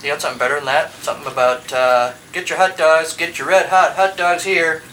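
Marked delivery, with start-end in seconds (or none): 2.3-4.8 loud, slow hot dog vendor call; stadium vendor hawking. Acted. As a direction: hawk hot dogs to the stands. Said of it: "How about something like that?".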